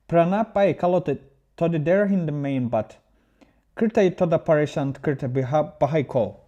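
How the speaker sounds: reading aloud in a playful, put-on Indian accent; hamming up an Indian accent for the chat; mock Indian accent. Streamer reads a viewer's message in a playful Indian accent. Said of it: "read it with more Indian accent".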